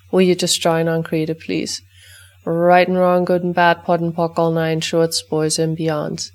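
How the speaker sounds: brisk, rote recitation of a set formula, easing off toward the end; ritual clearing statement. Acted. Facilitator reciting the clearing for the listeners' dogs, rote chant. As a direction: rattle off the clearing chant as routine.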